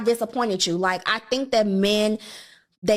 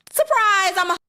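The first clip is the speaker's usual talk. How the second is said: a much higher, louder, sing-song surprise; a high, cheeky put-on girly voice; mock playful reveal; 10 semitones higher, 3 dB louder than usual. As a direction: tease it like springing a prank. Acts the woman revealing herself.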